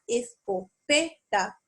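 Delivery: "escopeta" broken into syllables, PE stressed; es-co-PE-ta, leaning on PE. Shown as a demonstration. Teacher showing tonic syllables, "escopeta" stressed on PE. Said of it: "distintas palabras donde estoy intensificando la".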